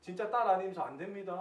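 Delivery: mildly insistent mock whining to God; half-playful retold demand; retold tantrum pleading. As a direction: plead stubbornly, acting out your own tantrum. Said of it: "막 진짜로 막 떼쓰면서".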